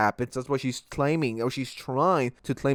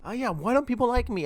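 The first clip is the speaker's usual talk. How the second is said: mock self-pity; 9 semitones higher, 3 dB quieter than usual. Mocking the killer's self-pity.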